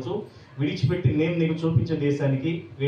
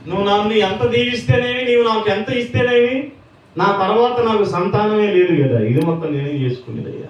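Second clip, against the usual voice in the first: higher, louder pleading protest; pleading complaint; 5 semitones higher, 4 dB louder than usual. Retold or imitated. Abraham protests to God, higher loud plea. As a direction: plead with God, rising in pitch.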